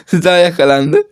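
words half laughed out; laughing repeat. Real, not acted. Amused at his own game, he repeats it laughing. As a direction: laugh through the repeat as it sinks in.

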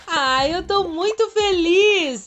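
excited squeal. Real, not acted. Excited about new unicorn.

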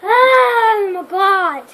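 slow, whimpering, near tears; sour candy. Real, not acted. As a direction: stretch it out almost crying. Mouth still burning sour.

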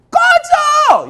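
very high, drawn-out scream; exaggerated full-volume dismissal; rude rejection shout. Student rudely rejecting a girl at university, hammed-up scream. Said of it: "이렇게 얘기하지 않겠죠".

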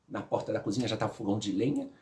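ordinary talk

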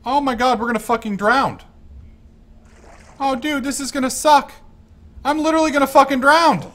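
high, loud, frantic panic; rushing words as you go under; real panic. Real, not acted. Drowning in game, panicking.

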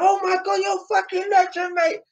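starstruck Cockney fan, very high-pitched; imitated awestruck Cockney bloke; Cockney accent. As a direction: gush in a put-on high Cockney voice. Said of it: "that's how I'm doing a Cockney accent".

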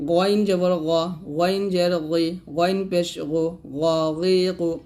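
গইন as a full, heavy throaty gh; thick heavy Ghayn. Shown as a demonstration. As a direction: recite গ, গি, গু with a thickened gh. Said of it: "গইনটা মোটা করে উচ্চারণ করতে হবে". ("গইন" মোটা করে উচ্চারণ)

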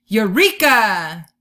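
loud, slow triumphant cry; excited eureka. Acted. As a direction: proclaim a brilliant idea. Brilliant idea said with confidence.

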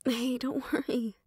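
soft reassuring whisper, barely voiced. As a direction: whisper it so only they hear. Reassuring someone before leaving.

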